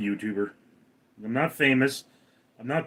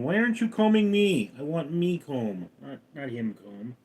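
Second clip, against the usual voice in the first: cat's voice; 3 dB quieter than usual. Pretend. Streamer voicing his cat Caramel, pleading. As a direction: speak for the cat, whiny and small. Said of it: "Caramel's going".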